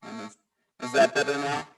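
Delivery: choppy connection, words dropping; glitchy call audio; voice breaking up. Real, not acted. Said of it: "No, you're still breaking up".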